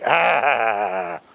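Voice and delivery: low, drawn-out ah of relish; pleasured "ah". Acted. What something in you does on cursing, pleasured ah. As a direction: let out a long, low, gratified ah. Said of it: "it produces a pleasure. Something in you goes like".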